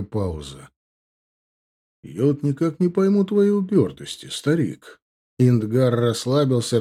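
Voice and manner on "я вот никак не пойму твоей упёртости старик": sly, mocking orc; smug orc voice. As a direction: play the cocky young orc. Indgar voiced in story.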